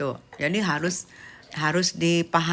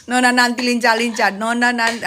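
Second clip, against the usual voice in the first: playful tease; 4 dB louder than usual. Acted. Teasing repeat.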